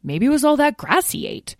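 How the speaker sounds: put-on high-pitched kid brother voice; tattling young dragon. Lyle butting in about his brother's stomach, high tattling. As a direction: pipe up and tell on him. Brother butts in, telling on him.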